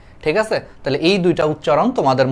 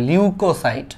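slow teaching; 3 semitones higher, slower than usual. Shown as a demonstration. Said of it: "কি বলা হয়?".

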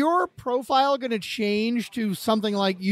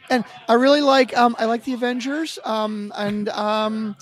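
Chelsea voice; 4 dB louder than usual. Pretend. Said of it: "talking in the Chelsea voice".

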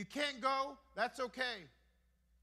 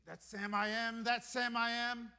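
nasty guy. Pretend. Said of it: "here's how that nasty guy responds".

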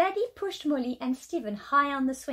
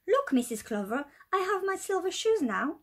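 proudly; 3 semitones higher than usual. Acted. Molly showing her dance teacher her new shoes, mildly proud. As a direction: show off to the teacher, lightly proud. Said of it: "said Molly proudly".

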